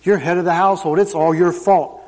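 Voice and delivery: a hint of a stern pastor, slowed; lightly voiced preacher laying down blame; pastor's blunt verdict. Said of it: "this pastor sits there and tells me".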